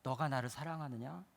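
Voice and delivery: quiet, gentle asking; soft question. Acted. Jesus gently asking the congregation, soft and low. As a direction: ask it softly, searching.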